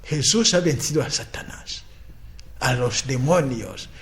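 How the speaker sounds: ordinary talk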